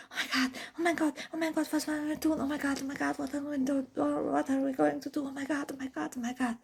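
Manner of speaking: fast, breathless mock panic; panicked babbling. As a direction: rattle it off in a half-hammed fright. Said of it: "Evelyn panicked".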